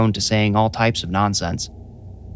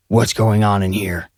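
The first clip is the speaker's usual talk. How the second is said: demanding. A narrator's reading. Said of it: "he demanded".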